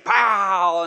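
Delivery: spoken shotgun pow; gunshot imitation. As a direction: mimic a quick shot into the air. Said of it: "he just goes outside and just".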